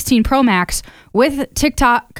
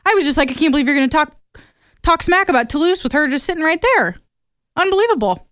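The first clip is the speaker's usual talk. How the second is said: mock offense; 4 semitones higher than usual. Scolding boyfriend for the cat.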